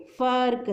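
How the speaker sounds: फर्क drawn out slowly around the r; teacher's slow फर्क, r held; r sound in फर्क shown. Shown as a demonstration. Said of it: "फ के बाद र की साउंड आ रही है".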